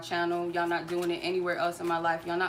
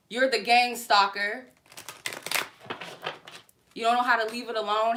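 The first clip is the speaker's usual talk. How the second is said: angry yell; 2 semitones higher, 3 dB louder than usual. Real, not acted. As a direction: hurl the accusation at him. Yelling at harasser on live.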